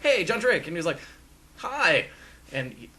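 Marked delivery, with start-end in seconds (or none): 0.0-0.7 higher, louder hail to someone; retold greeting. Fan greeting John Drake after walking back over, retold high greeting. 1.6-2.0 high-pitched little reply; retold greeting. John Drake answering a fan's hello, retold high reply.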